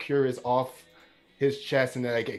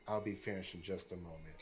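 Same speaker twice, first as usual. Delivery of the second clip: dismissive; 5 semitones lower, 16 dB quieter, faster than usual. Acted. Villain dismisses her.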